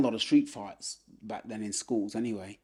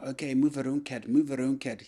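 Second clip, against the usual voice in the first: put-on light Scottish trainer's accent; imitated Scottish coach giving orders; 2 semitones higher than usual. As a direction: put on a touch of Scots, coaching a young boxer. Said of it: "that's a Scottish accent".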